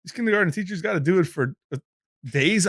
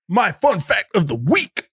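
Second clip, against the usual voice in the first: slow croaky frog-like jingle; 4 semitones higher, 4 dB louder, slower than usual. Acted. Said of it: "That was my frog impression".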